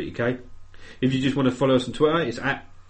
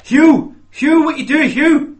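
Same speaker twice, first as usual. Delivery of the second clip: high, loud Welsh shouting; shrieked, badly faked Welsh; bad Welsh accent; 14 semitones higher, 10 dB louder, slower than usual. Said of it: "I can't do a Welsh accent".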